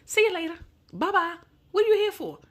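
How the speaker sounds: high, loud, scornful goodbye; loud dismissive send-off. Real, not acted. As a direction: shoo him off and demand why he's there. Dismissing the useless husband.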